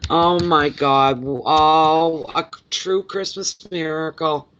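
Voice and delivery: drawn-out, loud exclamation easing off; real relieved wonder; joyful amazement. Real, not acted. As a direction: marvel slowly at a miracle. Celebrating the good news.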